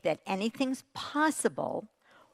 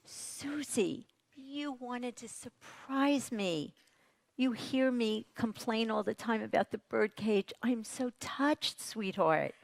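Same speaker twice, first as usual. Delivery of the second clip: tender; 3 semitones higher, 4 dB quieter than usual. Shown as a demonstration. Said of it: "could have said to Susie".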